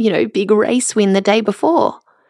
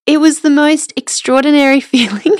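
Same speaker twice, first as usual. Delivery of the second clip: laughing through tears; 6 semitones higher than usual. Real, not acted. Proud mother laughing, near tears.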